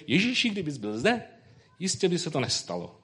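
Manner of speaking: preacher imitating Martha as if addressing a crowd; declaiming at a gathering. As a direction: say it like a speech at a meeting. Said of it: "Říká to jako někde na shromáždění".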